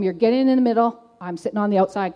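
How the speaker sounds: loud, firm command; firm order. Retold or imitated. Woman ordering her mentor into the car, loud and firm. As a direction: tell him where to sit, no argument.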